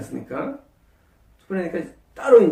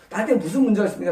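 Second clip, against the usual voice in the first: humble question; 2 semitones higher, much faster than usual. Shown as a demonstration. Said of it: "제가 겸손하게 예수님께 물어보는 거예요".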